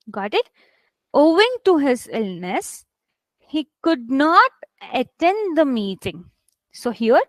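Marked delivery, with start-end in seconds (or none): 1.1-6.3 weight on "illness", drawn-out "could not", pauses between phrases; stress on illness. Shown as a demonstration. Teacher repeats the model sentence for learners, stressing "illness" and "not". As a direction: stretch "could not" and pause before "attend". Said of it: "your stress is on illness".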